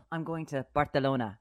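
BARCELONA with a lisped th for the c; Barcelona in affected Castilian pronunciation; Spanish lisp. Retold or imitated. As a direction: mimic someone saying "Barthelona". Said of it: "When you hear someone throw in".

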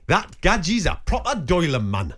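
slow, deliberate Geordie; drawn-out North East English lilt; Geordie accent. Shown as a demonstration. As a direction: put on a Newcastle accent, word by word. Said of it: "I'll do it in the accent".

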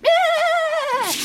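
loud, high bleated cheer; goat-like bleat. Acted. Goat character bleats out agreement.

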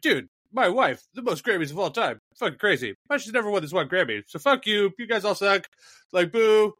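lightly hammed-up rapper complaint; mock rapper rant. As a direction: play the billionaire whining at the crowd. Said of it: "just be like".

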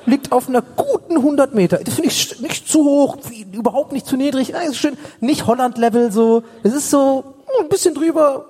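mock enthusiasm. Mock delight about Worms' height.

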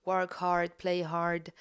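English accent, r's dropped. Shown as a demonstration. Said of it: "Je fais l'accent anglais".

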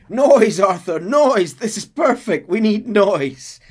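loud, high frantic shout. Retold or imitated. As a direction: yell it over the chaos. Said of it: "Dutch is shouting".

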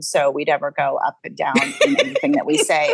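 "never go up and down" in a low monotone; flat, no pitch variation. Shown as a demonstration. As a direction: keep "anything that we say" all on one low note. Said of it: "to sound as flat as possible".

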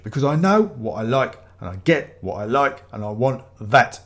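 lightly voiced insistent buyer; pushy customer. Ramage tells Desmond what he wants, mildly pushy. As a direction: lay down the demand with firm beats.

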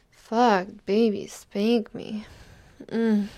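loud pleading moan; loud passionate cry. Acted. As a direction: cry it out, losing control. Passionate moment in roleplay.

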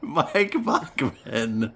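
slow, drawn-out announcer name; terrible voice. Acted. Host introducing a co-host in a slow terrible voice. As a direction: stretch the name out like a bad host. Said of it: "This is the Terrible Voices episode".

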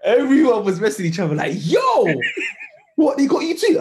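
loud laughing, high-pitched retelling; laughing shout. Retold or imitated. Retelling panicked group chat.

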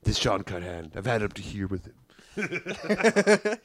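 lightly acted fed-up grumble, slow; Roger impersonation. Roger fed up with Sean, lightly put-on grumble. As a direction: grumble slowly, at the end of patience. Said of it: "Beeching to his friend about the night".

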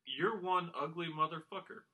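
slow, even quote reading; deadpan, measured delivery; monotone quote reading. Shown as a demonstration. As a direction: read the movie line slowly without expression. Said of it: "read these all in the same monotone voice".

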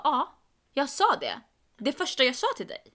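insist, acting out a mild exasperation; exasperated retort. Arguing with friend over the train ticket, exasperated retort.

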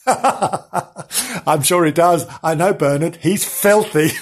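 slow, chuckling as Frank; laughing through the line. Acted. Frank mocking Bernard, slow and laughing. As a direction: giggle while agreeing.

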